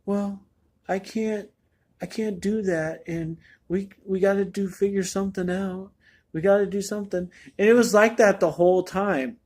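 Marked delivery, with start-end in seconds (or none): 0.1-7.3 soft, slightly higher, half-mumbled Keanu imitation; Keanu mumbling. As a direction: mumble it like a quiet, distant Keanu. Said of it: "Keanu is, like, talking like".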